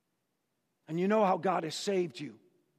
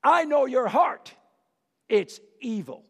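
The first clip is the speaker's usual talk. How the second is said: brother's scorn; 4 dB louder than usual. Acted. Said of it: "and says".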